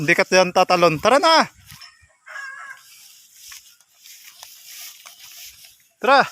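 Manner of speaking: high, sing-song call to the goats; calling animals. Real, not acted. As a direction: coax the goats home, calling out. (pagtawag sa mga kambing)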